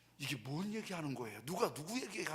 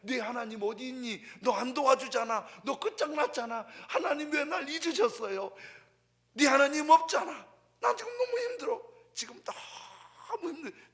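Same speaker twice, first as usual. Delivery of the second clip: impassioned quote; 10 semitones higher, 12 dB louder than usual. Acted. Voicing the enemies' taunts and David.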